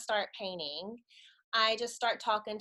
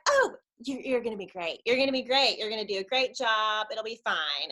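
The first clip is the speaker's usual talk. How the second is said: breezy encouragement; 2 semitones higher, 4 dB louder than usual. Retold or imitated. Acted leader brushing off her worry.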